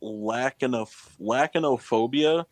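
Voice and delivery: lachanophobia sounded out as "LACK-uh-no-phobia". Shown as a demonstration. Quizmaster repronounces the word on request, lachanophobia with hard K. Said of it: "I believe it's pronounced".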